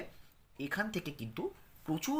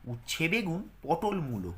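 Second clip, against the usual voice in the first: poem recitation. Shown as a demonstration.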